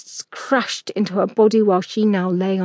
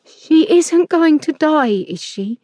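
put-on frightened boy; 7 semitones higher, slower than usual. A narrator's reading. Boy asking the man about the beaten woman, frightened. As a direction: ask fearfully as a scared child. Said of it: "fright and tears in his voice".

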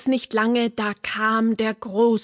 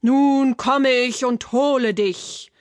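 lightly voiced troll threat; a hint of a menacing troll, pushed at the start; troll calling out. A narrator's reading. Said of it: "rief der Troll". (leicht gespielte, drohende Trollstimme)

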